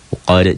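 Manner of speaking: "Uqad" with a bouncing final d; qalqalah kubro. Shown as a demonstration. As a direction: give "Uqad" a small echo as it stops. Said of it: "jika berhenti membacanya". ("Uqad" dengan pantulan di akhir)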